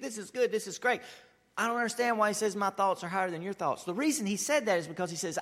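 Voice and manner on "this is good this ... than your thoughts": lightly voiced smug churchgoer, higher; content believer. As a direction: mimic the complacent reader. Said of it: "and we think".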